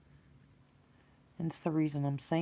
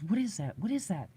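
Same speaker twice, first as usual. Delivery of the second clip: higher-pitched, mildly urgent questioning; retold amped-up questioning; 3 semitones higher than usual. Passenger staring into the brush, retold amped-up questioning. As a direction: imitate a keyed-up passenger asking. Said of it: "we're all amped up".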